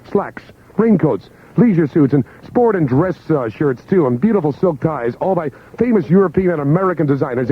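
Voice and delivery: upbeat pitchman read; radio ad read. Acted. DJ reading a clothing store ad live. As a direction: sell the sale with energy.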